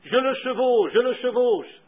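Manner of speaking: retold whoop of triumph, not a full shout; jubilant cry. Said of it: "en jubilant et en criant".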